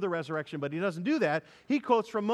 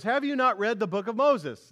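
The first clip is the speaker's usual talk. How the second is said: voicing Jesus; 6 semitones higher, 5 dB louder than usual. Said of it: "he goes".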